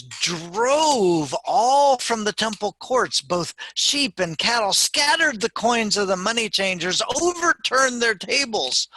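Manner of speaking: loud, high dramatic narration, stretched on the action words; building, forceful storytelling. A narrator's reading. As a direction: build in pitch and volume toward Jesus' outburst. Narrating the angry temple clearing.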